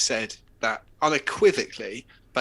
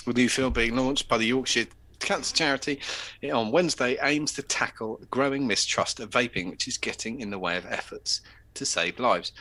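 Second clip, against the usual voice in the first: news read. Acted. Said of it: "why aren't you reading it in your generic northern accent".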